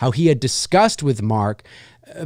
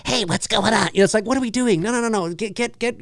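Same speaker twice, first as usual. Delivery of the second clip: The speaker's natural voice; 5 semitones higher, 3 dB quieter, faster than usual. Retold or imitated. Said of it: "Robert doesn't have a deep voice".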